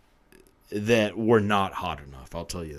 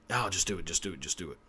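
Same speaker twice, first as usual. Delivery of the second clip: inner urging; 6 dB quieter, faster than usual. Retold or imitated. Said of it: "all your brain is telling you".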